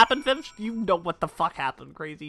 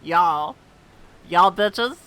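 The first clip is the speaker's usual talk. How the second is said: mock yell, much louder; mock taunting yell; 3 semitones lower, 4 dB louder, much slower than usual. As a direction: taunt the group with a playful yell. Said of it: "and then I go".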